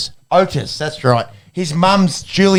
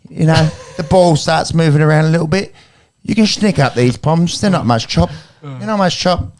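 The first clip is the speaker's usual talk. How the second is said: Gillian Anderson impression. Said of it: "that's me doing Gillian, um, Anderson".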